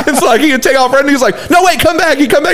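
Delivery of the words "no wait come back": high-pitched halting call; imitated coach. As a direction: mimic a coach stopping a runner. Coach halts player again.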